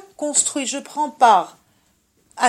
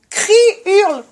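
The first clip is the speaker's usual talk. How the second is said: urging shout; 7 semitones higher, 7 dB louder than usual. Shown as a demonstration. Urges her to shout.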